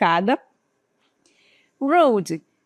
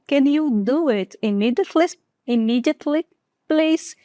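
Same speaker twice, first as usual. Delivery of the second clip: polite request; 3 semitones higher than usual. Shown as a demonstration. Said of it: "a minha oração já mudou consideravelmente".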